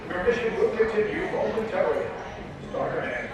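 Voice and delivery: PA announcement over speakers; airport announcement. Real, not acted. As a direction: public address system voice. Ride's recorded PA announcement.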